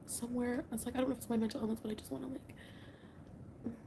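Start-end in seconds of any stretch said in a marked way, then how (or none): 1.8-3.7 slow, much softer whisper. Real, not acted. Wishing aloud to viewers for comfort, in a slow whisper. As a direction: trail off into breath. Late night, husband asleep nearby.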